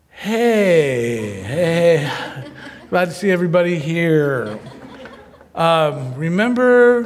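paste on a bright upbeat voice for the family; forced cheer. Retold or imitated. Faking cheer to scared family.

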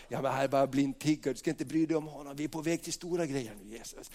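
low, quick, hushed aside; dismissive crowd. Acted. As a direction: brush the beggar off hurriedly. Crowd dismisses the beggar to Jesus. (lågt, snabbt och avfärdande)

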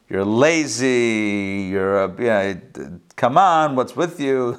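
slow, nagging parrot voice berating the owner; mocking parrot. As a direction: slowly needle him like a rude parrot. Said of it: "the parrot begins to mock and berate".

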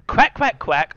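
high quacking duck. Acted. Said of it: "doing an impression of a duck".

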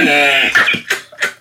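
hawk-like laugh. Real, not acted. Friend cracking up at the slam dunk joke, hawk-like laugh. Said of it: "did you just turn into a fucking hawk".

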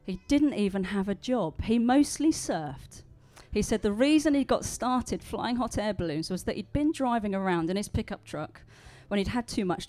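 measured storytelling with weighted key words; story reading. A narrator's reading. Preacher reading John's balloon story to the congregation, measured storytelling. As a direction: read it out to an audience, pausing for effect.

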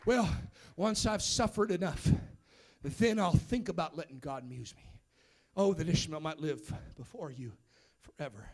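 acted weary plea, low and very soft; reluctant pleading. Imagined believer putting off God after suffering, quiet reluctant pleading.

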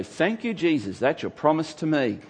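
mock delighted believer claiming a promise; grateful exclaim. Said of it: "you read that and go".

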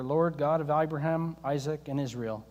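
Elijah praying humbly, hushed and low; humble prayer. Retold or imitated. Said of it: "he prayed this prayer".

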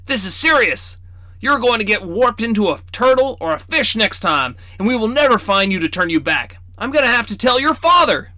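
put-on high, scolding old man voice; teasing grandfatherly reproach; stern grandfather. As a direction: chide the crow-boy like a fussy old grandpa. Grandfather threatens.

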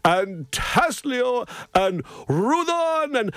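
a lightly voiced, cheery Santa reeling off names; jolly Santa. Santa on the radio greeting every child, beaming. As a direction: Santa proudly reading out the whole class list.

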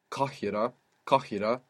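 Kahira with the K pulled from the back of the throat; Kahira, the qaf caught far back in the throat; deep qaf demo. Shown as a demonstration. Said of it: "This qaf sound that you can hear".

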